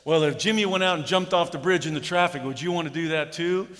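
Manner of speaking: parent's classic rebuke; scolding parent. Retold or imitated. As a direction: scold the child mockingly. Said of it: "what'd your parents say".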